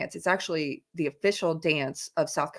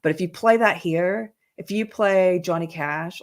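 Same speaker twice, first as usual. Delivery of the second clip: normal talking voice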